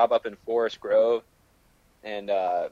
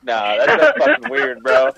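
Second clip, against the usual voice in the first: high, slow goofy bro voice; dopey dude voice; 11 semitones higher, 4 dB louder, slower than usual. Retold or imitated. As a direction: play the clueless bro, drawn out. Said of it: "And he's like".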